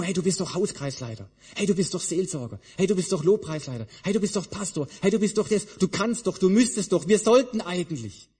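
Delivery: quick, pushy tempting voice; voice of temptation. Retold or imitated. Preacher voicing temptation, pushy and quick. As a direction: rattle off the demands like a nagging tempter.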